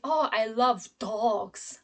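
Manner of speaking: "dogs" drawn out slowly; stress on DOGS. Shown as a demonstration. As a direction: lengthen the key word "dogs". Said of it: "My keyword will be dogs".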